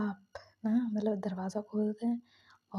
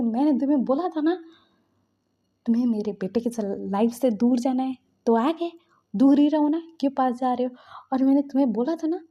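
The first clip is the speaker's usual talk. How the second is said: Madam Lan berates Jung Jung, louder and louder; angry berating; 4 dB louder than usual. Retold or imitated. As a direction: lecture her furiously, building. Mother berating girl.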